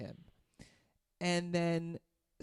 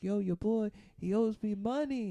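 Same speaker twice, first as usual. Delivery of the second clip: lightly imitated drunk, raised pitch; slurring drunk; 5 semitones higher than usual. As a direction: play a tipsy guy calling out insistently. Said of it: "kinda slurring his speech".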